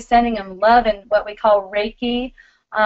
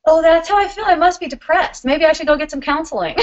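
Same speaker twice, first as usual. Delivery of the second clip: mock alarm; 5 semitones higher, faster than usual.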